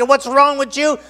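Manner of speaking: loud, high, exasperated telling-off; mock scolding of a stubborn animal; acted scolding. Acts Balaam scolding the donkey.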